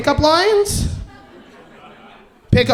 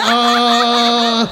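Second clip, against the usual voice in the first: mock-panicked shout; panicked bluff; 2 semitones higher, slower than usual. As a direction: blurt a brand name in panic. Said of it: "I'm like".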